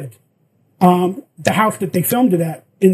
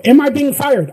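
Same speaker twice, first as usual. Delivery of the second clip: raised voice, higher and louder; yelling; 5 semitones higher, 3 dB louder than usual. Retold or imitated. Confronting the producer on set, yelling. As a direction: demand an answer, voice up. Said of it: "I start yelling at the producer guy".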